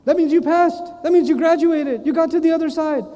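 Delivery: acted-out triumph, pitched high; elated. Person waved through to the other side, elated. Relieved passer celebrates getting through.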